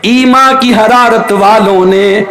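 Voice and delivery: a poet's measured delivery; slow verse recitation. Acted. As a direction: recite the couplet slowly, drawing it out. (آہستہ شعر خوانی)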